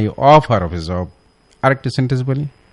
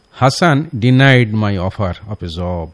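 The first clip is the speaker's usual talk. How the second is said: slow wrong model sentence; much slower than usual. Shown as a demonstration. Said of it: "এটা একটি ভুল sentence".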